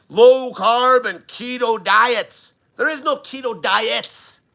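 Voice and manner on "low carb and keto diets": drawn-out, slow mock of what everyone says; sarcastically slow parroting; mocking quote. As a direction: stretch each word like a tired cliche. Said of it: "Everyone's like".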